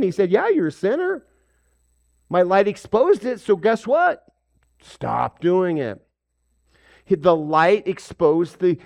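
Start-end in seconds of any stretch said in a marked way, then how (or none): 0.3-6.1 voicing Jesus. Jesus rebuking the woman.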